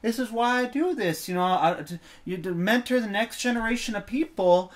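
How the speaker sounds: lightly voiced Southern mentor; relaxed Southern accent. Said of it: "the most relaxing Southern accent".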